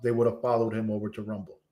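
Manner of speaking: slow repeat. Real, not acted. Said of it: "I said, if his fans loved him enough".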